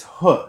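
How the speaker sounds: "huh" as a lone soft h sound. Shown as a demonstration. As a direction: demonstrate the H with a short "huh". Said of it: "it's a soft H".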